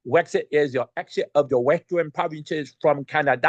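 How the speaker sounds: lightly voiced Elmer Fudd lisp. Explaining Wexit to listeners, a hint of Elmer Fudd. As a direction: keep the Fudd voice, only a hint. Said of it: "Maybe Elmer Fudd".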